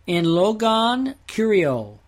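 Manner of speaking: slow, careful Greek reading of "In logon kurio"; teacher sounds out "In logon kurio" slowly for students; Greek phrase read out. Shown as a demonstration. Teacher sounding out Greek slowly. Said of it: "For example, First Thessalonians four fifteen".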